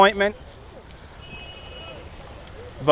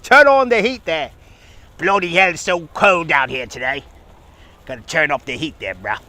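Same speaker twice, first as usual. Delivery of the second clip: mock British. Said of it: "Lizzie Baker from the United Kingdom".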